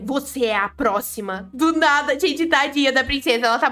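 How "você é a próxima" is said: 1 mock menacing threat. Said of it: "Gente, eu mandei".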